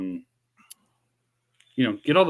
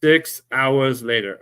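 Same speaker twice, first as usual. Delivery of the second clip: slow, louder announcer parody; mock time-card announcer; 3 semitones higher, 5 dB louder, slower than usual. Streamer joking about the long delay, mock announcer. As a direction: announce the delay slowly and grandly.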